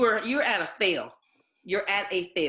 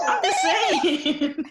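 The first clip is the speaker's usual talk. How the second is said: high, slow laughing aside; 7 dB louder, much slower than usual. Real, not acted. Friend laughing off her own rant, high and slow. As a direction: laugh it out, pitched up.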